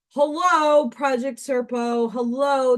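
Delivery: high, loud hello that eases off; mock greeting. Voicing what jumps out of the opened box, mock greeting. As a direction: play a surprise popping out of the box. Acting out the box's unwelcome surprise.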